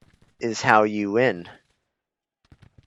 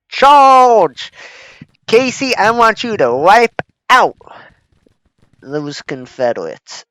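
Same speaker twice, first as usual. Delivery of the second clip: high, loud charge order; battle cry; 10 semitones higher, 10 dB louder than usual. Pretend. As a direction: yell it like a commander.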